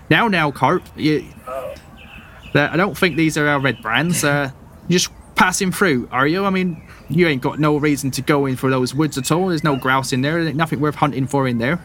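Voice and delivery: mum calming her son while eyeing strangers; mother. Acted. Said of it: "and she's like".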